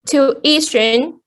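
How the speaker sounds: tuition stressed on I; tu-I-tion, stress just before the ending. Shown as a demonstration. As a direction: lean on the middle of "tuition". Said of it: "so the stress falls on the syllable".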